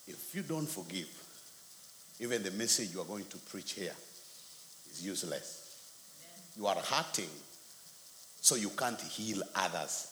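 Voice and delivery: low and measured, with pauses; solemn rebuke. Retold or imitated. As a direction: deliver a quiet, grave word from God. Retells the Lord's rebuke.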